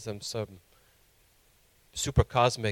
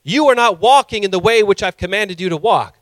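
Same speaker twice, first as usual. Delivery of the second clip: lightly acted stern commandment, louder; self-appointed god; 5 semitones higher, 5 dB louder than usual. Preacher voicing people who take God's place, sternly commanding. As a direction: hand down a mock divine decree. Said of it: "This is how people are talking".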